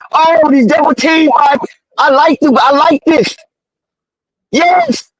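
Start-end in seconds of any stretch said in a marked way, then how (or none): 4.5-5.1 a sudden high yelp of joy; excited shout. Real, not acted. Fan watching the game cheers a big play with a high yelp. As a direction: burst out as the play goes in.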